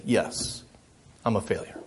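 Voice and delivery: hushed, breathy whisper of resignation; whispered defeat. Retold or imitated. Preacher voicing his inner critic, whispered and defeated. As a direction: whisper it like a beaten-down confession.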